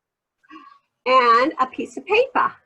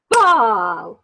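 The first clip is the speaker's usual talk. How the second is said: clapped word; 3 semitones lower, 4 dB louder than usual. Shown as a demonstration. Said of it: "Let me do it one more time".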